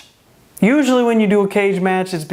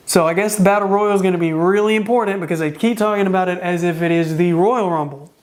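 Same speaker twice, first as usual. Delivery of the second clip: strained, tiring voice; losing voice. Real, not acted. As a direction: talk through a fading voice. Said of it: "I'm starting to lose my voice".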